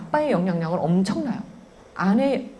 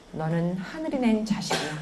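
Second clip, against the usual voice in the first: put-on soft, tender blessing to a baby; soft blessing spoken to a child; gentle blessing; 4 dB quieter than usual. Shown as a demonstration. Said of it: "우리 아기한테 말하세요".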